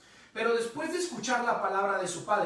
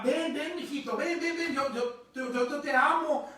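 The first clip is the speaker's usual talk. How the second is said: slightly raised, eager fatherly urging; coaxing father; 4 semitones higher than usual. Retold or imitated. Father begging his scared son to jump, gently coaxing. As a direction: stumble over the words in loving insistence.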